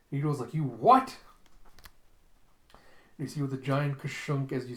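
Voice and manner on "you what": much louder incredulous snap; sudden alarm; shocked disbelief. Retold or imitated. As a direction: react stunned. Ito shocked by news.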